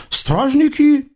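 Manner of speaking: high, singsong eastern tyrant voice; comic sultan. Acted. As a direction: play a pompous, childish sultan. (высокий певучий голос капризного султана)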